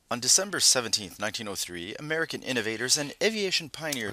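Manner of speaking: put-on old style news reporter voice; old newsreel narrator. Shown as a demonstration. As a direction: read it like a vintage newsreel announcer. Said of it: "trying to make my voice sound like, uh, one of those old, uh, old style narrative news reporters".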